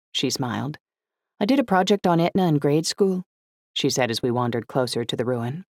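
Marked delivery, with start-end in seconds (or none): 1.4-3.2 put-on higher-pitched, keen young woman; light feminine voice, eager; eager girl. A narrator's reading. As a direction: pitch it up, sharing a favourite subject. Narrator voices the girl Emily.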